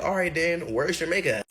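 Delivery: high, pushy comeback; defiant challenge. Retold or imitated. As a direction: throw the question back at them. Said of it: "I'm like".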